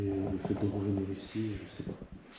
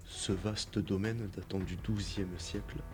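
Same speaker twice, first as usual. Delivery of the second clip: documentary narration; 4 dB quieter than usual. Acted. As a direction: read the history like a narrator. Reads site history over music.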